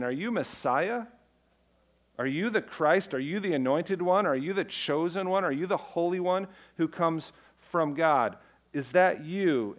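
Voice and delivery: a touch of insistent crowd voice; pressing questioners. Retold or imitated. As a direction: ask again and again, pushing for an answer.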